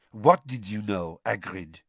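low, purring voice. Acted. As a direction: purr it to Hagrid. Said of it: "a distinct purr in her low voice".

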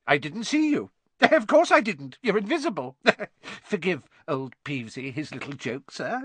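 high, giggly fawning; nervous grovelling laughter. A narrator's reading. Peeves excusing himself to Baron, grovelling giggles. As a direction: giggle ingratiatingly between phrases.

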